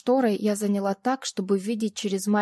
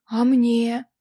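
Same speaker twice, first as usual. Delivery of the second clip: put-on loud childish plea; childlike asking; 4 semitones higher, 9 dB louder than usual. A narrator's reading. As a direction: ask like a needy child. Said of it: "совсем уж как ребёнок спросил Градов".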